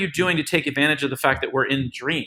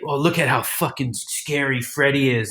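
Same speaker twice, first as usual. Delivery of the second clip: scary voice. Retold or imitated. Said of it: "don't do that scary voice".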